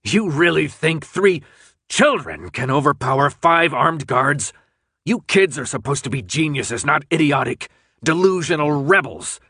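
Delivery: lightly voiced cold official, mocking the kids; a hint of a condescending captor; sneering official. Captor mocks the captive kids, lightly sneering. Rat Man character voice.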